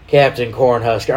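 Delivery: imitating your own southern accent slipping out; thick southern accent. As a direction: lay a Southern accent on the name. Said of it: "my accent came out super bad".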